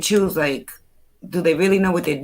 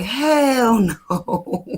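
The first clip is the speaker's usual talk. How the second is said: drawn-out, higher-pitched retold refusal; emphatic mock refusal; 4 semitones higher than usual. Would-be pilot retells reaction to crash news, emphatic refusal. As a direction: stretch both words out in comic dread.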